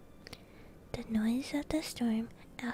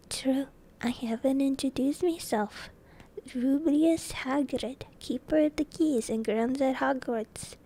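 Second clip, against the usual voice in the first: a hint of a hearty giant introducing himself; mildly put-on giant voice, measured; lightly voiced friendly giant; 3 dB louder than usual. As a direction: introduce yourself as the big gamekeeper, lightly.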